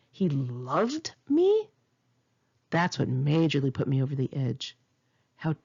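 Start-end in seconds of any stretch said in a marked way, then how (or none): 0.1-1.7 slow, disbelieving rise on me; very slow mocking question, rising at the end; incredulous. Real, not acted. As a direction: scoff at the idea he loved her. Incredulous repeat of his words.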